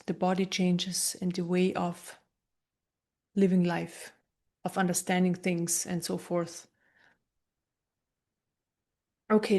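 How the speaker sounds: calm, unhurried meditation guide with long pauses; guided meditation. Acted. Meditation teacher guiding listeners through an energy transmission, calm guided meditation. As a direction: gently talk them through it, leaving space between phrases.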